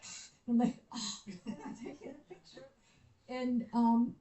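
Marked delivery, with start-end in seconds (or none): 0.0-0.3 cobra hiss. Retold or imitated. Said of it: "the cobra's like". 0.9-2.7 quiet laugh through the words; soft nervous giggling refusal. Retold or imitated. Backs off from cobra.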